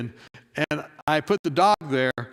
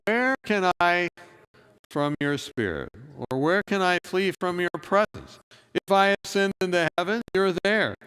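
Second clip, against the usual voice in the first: scripture reading; 3 semitones higher than usual. Acted. Reads the psalm together.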